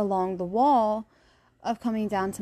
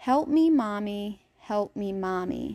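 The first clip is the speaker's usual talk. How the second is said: put-on little kid voice, small child's voice. Retelling a voice they heard, little kid voice. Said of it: "The first one was like a little kid".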